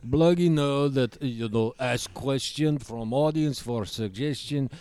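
gruff Eastern European puppet; Bloggy voice. Acted. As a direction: demand a cigarette in broken English. Bloggy voice continues.

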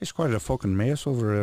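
lightly hammed English accent; playful fake-English delivery; mock English accent. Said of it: "English accent".

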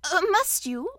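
polite. A narrator's reading. Rabbit to his departing guest, polite. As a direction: ask politely, with a small stammer. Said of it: "said Rabbit politely".

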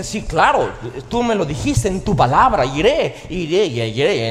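a keen believer promising "iré" over and over; eager obedient believer. Retold or imitated. Preacher voicing an obedient believer, eager. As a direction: sound like someone eager to obey.

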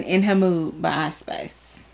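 lightly put-on Chicago accent. Shown as a demonstration. Host naming a favorite song title, in a playful Chicago accent. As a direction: say it like a Chicagoan, HER as "huh". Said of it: "I said in a Chicago accent".

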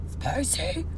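lightly imitated little creature voice; Stitch. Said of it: "It's like the little Stitch voice".

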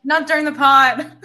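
laughing through the words. Real, not acted. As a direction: say it while laughing. Laughing at neighbor fight.

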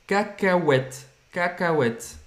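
"Cacahuète" with its U said "oo", gliding into "ète"; U sounded as Portuguese U. Shown as a demonstration. Teacher modelling the word for peanut, U sounded as Portuguese U. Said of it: "tem o som do U".

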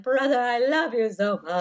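mock weepy declaration; imitated crying child. Mother imitating one son to his brother, tearful. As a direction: blubber it like a child, playfully. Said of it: "they both start crying again".

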